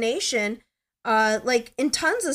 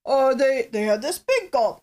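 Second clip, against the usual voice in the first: Johnny Carson impression; 3 semitones higher, 3 dB louder than usual. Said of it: "sounds a little bit more like that guy who gets no respect".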